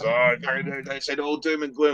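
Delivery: high-pitched retold fretting; imitated worried dad. Dad rings back with doom and gloom, imitated in a high fretting voice. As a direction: voice dad's bad news up high. Dad's reply acted in retelling.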